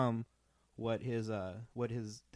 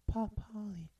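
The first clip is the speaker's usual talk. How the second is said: high sweet parrot chirp; 10 semitones higher than usual. Pretend.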